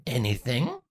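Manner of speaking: dry, flat and quiet; unimpressed, totally dry; deadpan. Acted.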